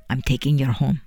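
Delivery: put-on calm a frightened girl with gentle firmness; soft but firm. John Allen kneeling by the sobbing girl, soft but firm. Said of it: "he said in a soft but firm manner".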